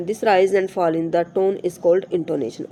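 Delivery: slow, careful reading of the English text; slow textbook reading. Shown as a demonstration. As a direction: read each word out slowly for the class. Reads textbook sentence aloud. (धीमी, साफ़ पाठ्य-पुस्तक पढ़ाई)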